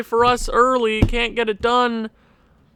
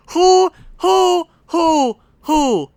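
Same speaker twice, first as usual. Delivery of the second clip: higher and louder, repeated demand; exasperated shouting; 9 semitones higher, 6 dB louder, much slower than usual. Real, not acted. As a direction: demand answers from the screen. Demanding who took penalty.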